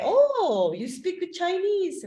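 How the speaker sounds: high, delighted "Oh, you speak with Chinese"; impressed exclamation. Retold or imitated. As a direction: gush like an impressed listener. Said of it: "they say".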